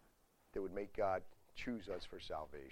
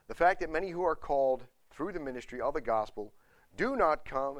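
projected, higher-pitched doctrinal reading; measured public reading with strong key words; formal reading aloud; 3 semitones higher, 7 dB louder than usual. Real, not acted. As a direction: read the article out firmly to the room.

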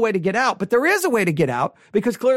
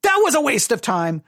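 sudden exasperated verdict after hushed talk; acted indignant complaint; mock disgust; 2 semitones higher than usual. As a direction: burst out as a let-down listener. Imagined disgusted reaction after long pause.

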